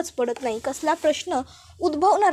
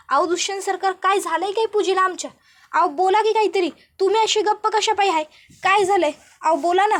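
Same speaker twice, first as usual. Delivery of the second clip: retold cry for an answer, higher but only a mild mock shout; calling out anxiously; 5 semitones higher than usual. Krishna pleading with silent Dushyant about Pooja, mild raised-voice retelling. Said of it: "Krishna जोरात ओरडते".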